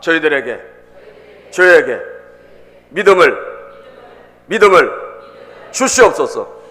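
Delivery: loud prayer in short chunks; forceful petition with long gaps between phrases; led prayer. Real, not acted. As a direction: call out each phrase for the congregation to echo. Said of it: "따라합시다".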